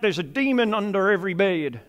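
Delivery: lightly done mock American accent. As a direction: toss it off in a joking American accent. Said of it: "did that with an American accent".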